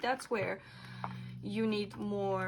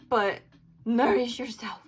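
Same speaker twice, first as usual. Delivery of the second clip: louder, annoyed insistence; irritated; 5 dB louder than usual. Real, not acted. Reader still annoyed at viewers, louder irritated insistence. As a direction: press it home, getting pissed. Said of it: "I'm getting pissed".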